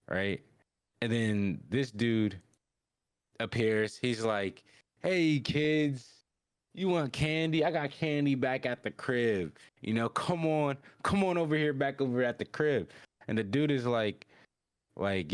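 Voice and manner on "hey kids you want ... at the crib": high, coaxing stranger voice; kidnapper luring kids. Retold or imitated. Shady stranger offering kids candy, high luring voice. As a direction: coax them over, pitched well up.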